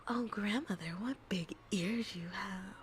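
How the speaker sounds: slow, whispered wide-eyed wonder; lightly voiced Little Red; innocent Little Red. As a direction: gasp it like a naive girl.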